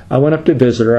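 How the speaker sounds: ordinary talk, nothing marked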